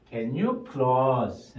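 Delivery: slow first chunk of the phrase. Shown as a demonstration. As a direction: say the chunk slowly on its own. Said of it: "요 한 묶음". (첫 묶음을 천천히)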